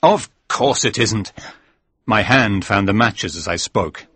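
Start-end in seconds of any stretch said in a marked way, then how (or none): 0.0-1.3 slow, raised, insistent denial; firm denial. Acted. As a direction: dismiss the fear emphatically, slowly. Narrator firmly denies the frightening claim.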